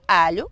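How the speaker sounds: ALHO with tongue up at the teeth for lh; Portuguese LH. Shown as a demonstration. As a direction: say "alho" with a palatal l, rising. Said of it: "En portugués".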